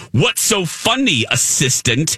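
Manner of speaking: mock-haughty, high then dropping on the last word; lightly voiced villainess putting him down; sassy Cruella de Vil. Villainess scolds the laughing man, mildly sassy. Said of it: "she was so sassy".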